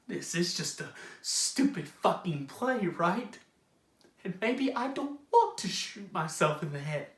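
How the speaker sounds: soft, subdued admission; deflated confession. Acted. Character admitting doubts to the audience, deflated confession. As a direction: let the volume drop right away. Deflated aside after the outburst.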